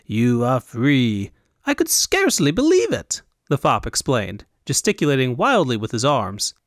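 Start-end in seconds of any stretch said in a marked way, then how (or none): 0.0-1.3 slow, emotionless, hypnotized drone; monotone voice. Acted. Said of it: "in an emotionless and monotone voice". 1.6-3.2 high, airy Elvunian fop; high Elvunian accent. Acted. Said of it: "high Elvunian accent".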